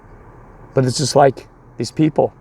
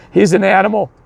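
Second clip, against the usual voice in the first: higher-pitched, mildly raised accusation; imitated irate coach; 5 semitones higher, 4 dB louder than usual. Rival coach accusing the young pitcher, mock outrage. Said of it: "screaming at me, ... And their coach is like".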